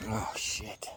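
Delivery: whispering. Real, not acted. Tired after the run.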